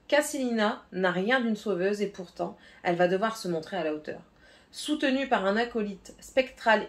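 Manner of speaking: lightly dramatized back-cover reading; synopsis read aloud. Acted. Booktuber reads the synopsis to her viewers, lightly dramatic. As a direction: read the blurb with a bit of suspense.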